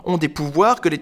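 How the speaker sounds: high, wistful woman's voice; gushing, plaintive high voice; sentimental wife. Acted. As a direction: lament your lost love, pitched high. Woman fondly recalls late husband.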